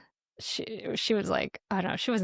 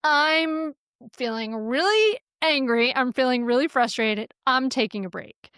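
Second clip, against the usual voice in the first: firm, owned anger; 3 semitones higher, 4 dB louder than usual. Shown as a demonstration. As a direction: model a frustrated parent's firm statement. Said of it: "you just say".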